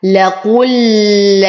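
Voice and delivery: لقل very slow, qaf with damma straight into doubled lam; joined pronunciation. Shown as a demonstration. Teacher demonstrates the joined reading لقل, very slow. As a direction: draw out لقل slowly, vowel dropped before the shadda. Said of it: "فتصبح الكلمة لقل".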